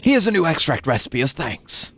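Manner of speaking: a hint of a grumpy old man; lightly voiced old scholar. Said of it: "There it is".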